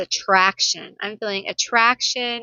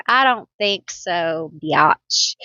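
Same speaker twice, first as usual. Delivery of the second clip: sassy brush-off; 3 semitones lower, slower than usual. Pretend. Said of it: "We got a knight here".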